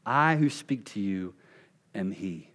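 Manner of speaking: slowed with a pause before am he; slow emphatic reading. Shown as a demonstration. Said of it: "What Jesus says here is incredible".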